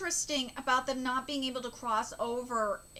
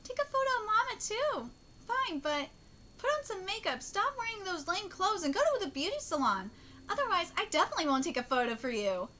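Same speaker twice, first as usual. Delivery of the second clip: higher, lively character read; pitched-up bossy manga character; lightly voiced manga dialogue; 6 semitones higher than usual. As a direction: act out the manga banter, lightly. Reads manga dialogue aloud in character.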